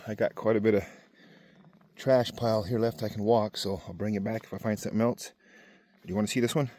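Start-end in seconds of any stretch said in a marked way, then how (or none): 6.0-6.7 talking while chewing seeds; words round a mouthful of seeds; mouth full. Real, not acted. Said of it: "Sorry, I'm eating sunflower seeds".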